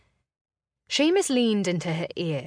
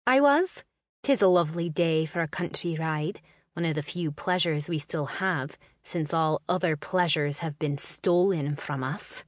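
flippant. Acted. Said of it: "flippant tongue".

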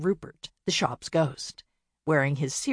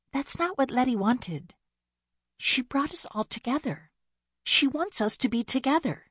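youngest sister objecting; 8 semitones higher than usual. Acted.

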